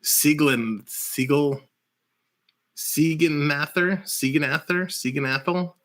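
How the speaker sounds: halting tries at Siegenather, rising like a question; unsure pronunciation. Shown as a demonstration. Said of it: "not even gonna attempt to pronounce his name".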